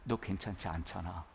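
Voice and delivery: a light hint of Jesus comforting a weeping person; tender Jesus. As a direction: invite the hurting to come as they are. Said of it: "그렇게 말씀하시는 거예요".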